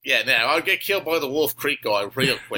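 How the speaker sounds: broad mock Aussie accent; Australian accent. Guest dreams of provoking Australians, in overdone Australian accent. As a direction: hold the fake Australian accent. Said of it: "just talk in my Australian accent".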